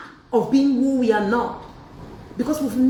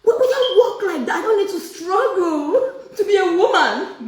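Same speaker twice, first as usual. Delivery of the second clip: laughing; 9 semitones higher, 4 dB louder than usual. Real, not acted. Laughing, mocking imitation.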